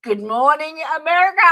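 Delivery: high, loud showman's good morning; big booming morning show welcome; loud greeting. Real, not acted. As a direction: boom it out like a TV host. Stream host's big opening greeting.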